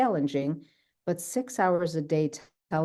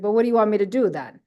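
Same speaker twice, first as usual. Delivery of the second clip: quick, louder, higher exasperated retort; exasperated mom; 4 semitones higher, 5 dB louder, much faster than usual. Retold or imitated. Italian mom told not to ask or cry, exasperated. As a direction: throw the question back, fed up. Mom answering the no-crying rule.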